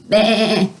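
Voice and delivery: imitated bleating goat; mock goat baa. Shown as a demonstration. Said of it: "like this".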